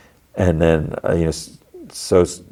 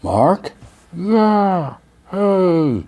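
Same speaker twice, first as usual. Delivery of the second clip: mock calling; 11 semitones higher, much slower than usual. Two characters calling across distance.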